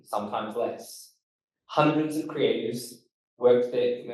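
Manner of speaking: slightly bouncy podcast intro with key words emphasized; host an intro with a little bounce, leaning on key words; podcast performance voice. Shown as a demonstration. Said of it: "it's a little bounce, it's a little slower, and you emphasize words".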